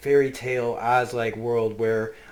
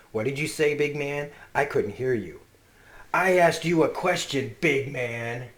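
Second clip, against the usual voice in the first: menacing challenge; 3 semitones higher, 4 dB louder than usual. Retold or imitated. Father challenges son to repeat.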